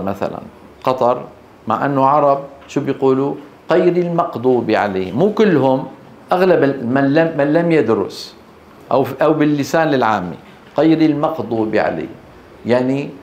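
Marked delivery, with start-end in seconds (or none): 3.7-5.2 غير المغضوب with each غ said as q; Qaf-mixed Ghain. Shown as a demonstration. Teacher imitating some regions' speakers, غ as q. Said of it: "خلط صوتها بالقاف". 10.8-12.1 غير المغضوب with each غ said as q; Qaf-mixed Ghain. Shown as a demonstration. Teacher imitating some regions' speakers, غ as q. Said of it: "تخرج كأنها إيه؟".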